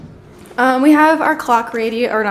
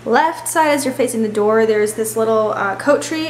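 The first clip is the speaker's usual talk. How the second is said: echoey hallway voice. Real, not acted. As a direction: voice echoing in an entryway. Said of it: "sorry for my echoey voice".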